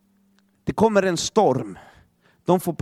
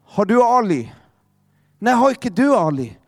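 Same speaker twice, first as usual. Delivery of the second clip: mock frantic calling; 3 semitones higher, 3 dB louder than usual. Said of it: "ropar mamman till pappan".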